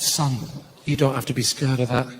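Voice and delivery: low, gentle retold comforting; lightly acted fatherly reassurance; reassuring father. Father comforts his scared child.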